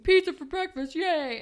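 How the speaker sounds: high, loud mock cheer; mock excitement. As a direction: cheer like overexcited babies. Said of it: "they're so excited about pizza for breakfast".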